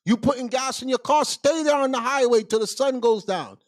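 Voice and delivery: loud, high, sing-song rebuke as God; lightly hammed-up God telling him off; God scolding a man for buying gas on the Sabbath, a loud mock rebuke. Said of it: "God is not gonna go".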